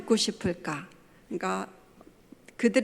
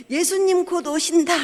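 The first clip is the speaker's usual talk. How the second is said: high, hammed-up doomsday announcement; mock proclamation; 7 semitones higher, 4 dB louder than usual. Mother mimics daughter's despairing pious outcry, hammed up. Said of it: "막 이렇게".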